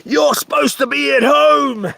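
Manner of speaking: hammed-up bossy doctor; mimicking the doctor. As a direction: shout his line back in a high parody. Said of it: "re-enacting doctor's nagging".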